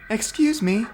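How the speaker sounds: a hidden engine asks for attention; high engine voice. Acted. Rebecca calls out politely from the shed in a high voice.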